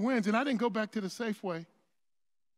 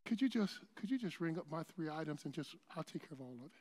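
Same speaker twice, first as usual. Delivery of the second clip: hushed, discreet request; murmured favor to the cashier; quiet aside; 5 semitones lower, 9 dB quieter than usual. Retold or imitated. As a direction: lean in and keep it low so others don't hear. Leaned over to the cashier.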